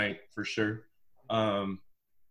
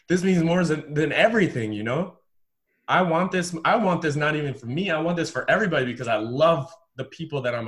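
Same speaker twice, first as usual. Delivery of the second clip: inner protest; 3 semitones higher, 3 dB louder than usual. Retold or imitated. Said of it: "thinking inside".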